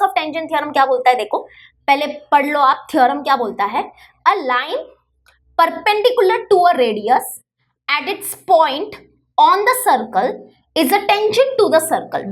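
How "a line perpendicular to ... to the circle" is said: slow recital. Shown as a demonstration. Teacher reading theorem aloud to students, slow recital. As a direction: read the theorem out word by word, very slowly. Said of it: "जोर से बोलो".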